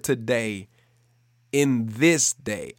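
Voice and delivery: "today" and "this" drawn out slowly with weight; stress on today, this. Real, not acted. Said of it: "I put emphasis on the word today in this".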